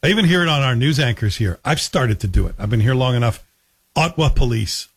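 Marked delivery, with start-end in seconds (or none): 4.0-4.9 "Ottawa" squeezed to OT-wa before "police"; dropped middle vowel. Shown as a demonstration. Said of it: "people leave out that extra vowel".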